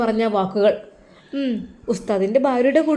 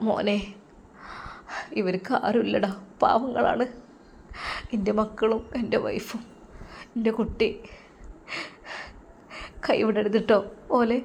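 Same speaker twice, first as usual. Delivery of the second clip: weak last words; 9 dB quieter than usual. Acted. Dying teacher's last request.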